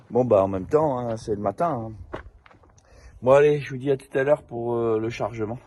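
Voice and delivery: bouche pleine de dentifrice; en se brossant les dents. Real, not acted. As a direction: parler avec la brosse à dents. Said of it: "je me lave les dents". (en se brossant les dents)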